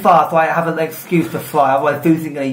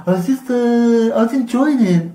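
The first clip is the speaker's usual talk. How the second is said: dragon voice; 9 semitones higher, slower than usual. Retold or imitated. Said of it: "The wind is like".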